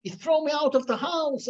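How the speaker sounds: retold crying boy. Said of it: "he's crying, he says".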